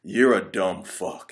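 slow, flat, scornful insult; unhurried contemptuous jab; wife's putdown. Retold or imitated. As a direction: drag it out like a fed-up wife. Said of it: "she's like".

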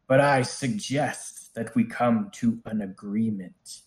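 commanding dragon bargaining from afar; a dragon bargaining from inside the tower; booming voice. Acted. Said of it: "he is speaking to you from inside the tower".

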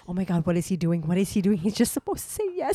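a mild mock panic in her head; panicked. Fiancée panicking silently mid-proposal, rushed and rising. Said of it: "I panicked so bad".

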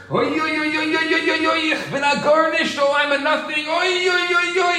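very high, sustained oy-oy lament; mock screaming wail. Rabbinical student trying to out-scream the other, mock wailing. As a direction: keep wailing high, over the top. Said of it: "And the other one screaming louder".

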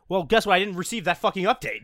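high, emphatic bickering; indignant retort. Real, not acted. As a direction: fire back in heated protest. Playful quarrel over outdated information.

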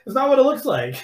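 high, guilty squeak; mock caught excuse. Caught guy squeaking his denial to his stepmom. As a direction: plead it's not what it looks like.

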